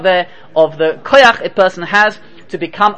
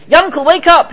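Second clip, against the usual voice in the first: raised, higher urgent call through the door; urgent wake-up call; 8 semitones higher, 3 dB louder than usual. Acted. Friend pounding on the door at night, urgent raised call. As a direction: shout him awake, pitched up.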